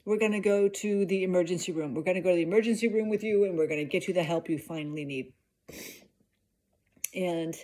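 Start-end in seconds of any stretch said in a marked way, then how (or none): 0.0-5.3 fast, loud, frantic plan; hurried mock-emergency announcement; urgent take-charge. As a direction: rush it out like a frantic wife. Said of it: "I'm like".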